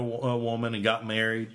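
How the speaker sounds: hiccuping mid-sentence; talking through hiccups. Real, not acted. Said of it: "I got the hiccups".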